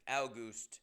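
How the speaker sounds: August said as OW-gust, first syllable rhymes with cow. Shown as a demonstration. Musing to listeners on saying August, OW-gust. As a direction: stretch August into OW-gust, slowly. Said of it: "I always say in my head, I say August".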